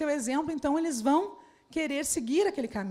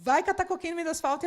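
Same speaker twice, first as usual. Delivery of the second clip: fast, blunt brush-off with "catar" punched; rude dismissal; 2 semitones higher, faster than usual. Shown as a demonstration. A leader who makes the person angry, blunt and rude. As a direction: snap it off rudely, in jest. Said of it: "a pessoa ficar braba comigo".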